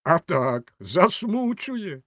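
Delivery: high, stretched-out "засмучує"; emphatic drawn-out exclamation; exclaimed echo. A narrator's reading. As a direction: punch the agreement, then drag "засмучує" high. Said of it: "вигукнув бенгальський вогонь".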